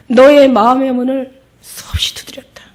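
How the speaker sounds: breathy whisper of Jesus; whispering, as Jesus to the woman. Acted. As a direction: hush it like a secret plea. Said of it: "예수님이 뭐라고 얘기하시냐면".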